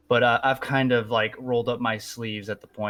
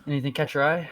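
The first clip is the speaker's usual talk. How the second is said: merchant voice; 6 semitones higher, faster than usual. Acted. Player voices merchant to customer.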